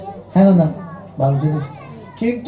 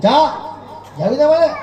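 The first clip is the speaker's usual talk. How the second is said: sharp, higher mock scold from an angry mother; 5 semitones higher than usual. Mother scolds her daughter for refusing to go, sharp and higher. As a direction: snap at the daughter like a fed-up mother.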